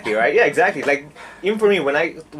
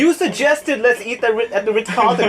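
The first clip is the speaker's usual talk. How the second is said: mock outrage; 9 semitones higher, 5 dB louder than usual.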